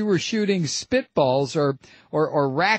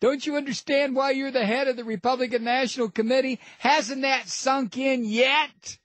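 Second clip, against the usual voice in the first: mock disbelief; 7 semitones higher than usual. Host mocks Steele's phrase.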